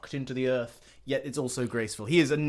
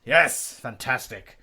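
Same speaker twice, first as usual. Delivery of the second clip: grand ballet master; 3 dB louder than usual. Acted. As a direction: bless your star pupil. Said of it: "He's like".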